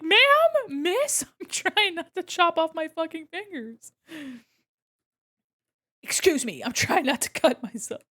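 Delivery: high, loud mock protest; telling the mom off about her fingers, indignant. Retort to mom.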